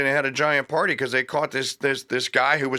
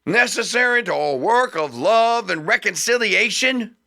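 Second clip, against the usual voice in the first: orating Patrick Henry; 5 semitones higher, slower than usual. Retold or imitated. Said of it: "Henry says".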